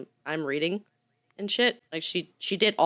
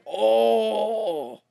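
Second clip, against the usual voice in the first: hammed-up villain, higher and drawn out; loud, slow mock-evil outrage; evil person; 5 semitones higher, 6 dB louder, much slower than usual. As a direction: act scandalized like a pantomime villain. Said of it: "That's how I imagine evil people".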